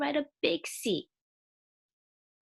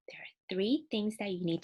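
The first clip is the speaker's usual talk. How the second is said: whisper; 5 dB quieter than usual. Acted. Teacher whispers a key point.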